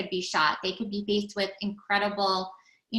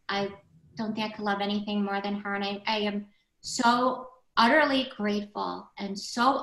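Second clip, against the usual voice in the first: heartfelt and tender; 4 dB quieter than usual. Real, not acted. Mother's heartfelt message to daughter.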